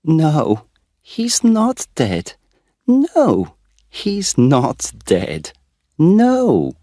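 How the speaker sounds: very high, slow, breaking relief; the German girl overcome with relief, very high and slow; crying and laughing. A narrator's reading. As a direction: sob it out with joy. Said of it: "crying and laughing at the same time".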